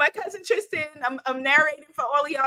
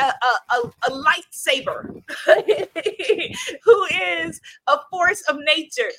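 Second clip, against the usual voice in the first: louder, slow emphatic praise with laughs; proud gushing; 5 dB louder than usual. Real, not acted. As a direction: brag on the cousin with full pride. Bragging proudly on cousin.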